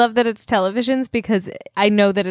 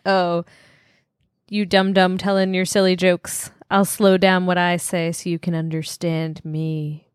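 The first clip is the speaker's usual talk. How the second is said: condescending slow talk; 3 semitones lower than usual. Retold or imitated. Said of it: "I don't like when you talk like that".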